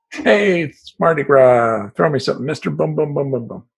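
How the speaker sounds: mock parade call. Mock Mardi Gras parade call.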